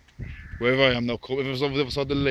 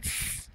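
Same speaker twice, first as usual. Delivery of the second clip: imitated hiss; 8 dB quieter than usual. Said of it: "he went like that, he went".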